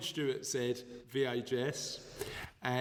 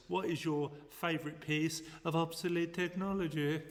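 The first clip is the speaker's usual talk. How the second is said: mad scientist; 3 semitones higher than usual. Acted. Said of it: "Why do you sound like a mad scientist?".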